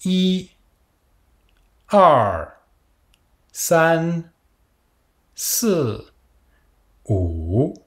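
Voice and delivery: each number spoken alone with its Mandarin tone; counting with tones. Shown as a demonstration. Teacher counts for students to repeat, each tone clear. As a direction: model each digit slowly with a pause after it. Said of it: "Répétez avec moi".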